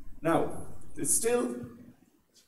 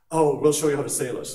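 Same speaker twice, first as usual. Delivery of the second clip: eager Irish helper; 7 dB louder than usual. Acted. Irish boat renter, eager, acted.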